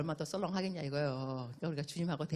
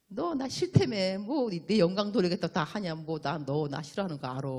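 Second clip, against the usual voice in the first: annoyed God; 7 dB louder than usual. Retold or imitated. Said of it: "하나님도 짜증나요".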